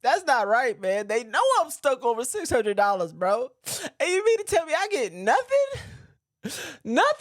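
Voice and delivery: high, loud frustrated whine; acted upset poker player. Acting a poker player stuck six hundred, high loud whine. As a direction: complain like you got robbed at the table. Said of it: "for this scene, I wanna cry".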